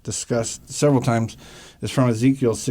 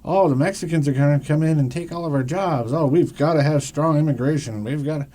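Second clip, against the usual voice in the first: mock anti-immigrant Christian; 4 semitones higher than usual. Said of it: "Christians now".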